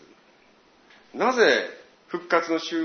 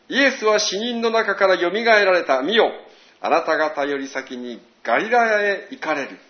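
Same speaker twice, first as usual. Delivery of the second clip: declaimed angel's message, building louder toward the news; solemn scripture reading; 4 dB louder than usual. Acted. Preacher reads the angel's words to the women, solemn proclamation.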